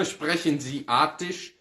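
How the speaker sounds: Sprechen Sie Attisch said slowly in German; German title. Shown as a demonstration. Teacher reading a German book title to students, slow. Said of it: "edição alemã".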